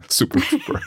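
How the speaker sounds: high, laughing Glaswegian accent; a song title in a hammy Glaswegian voice. Shown as a demonstration. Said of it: "in a very Glaswegian accent".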